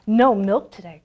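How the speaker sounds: loud dismayed cry. Acted. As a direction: wail it like a desperate farmer. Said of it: "cried Farmer Brown".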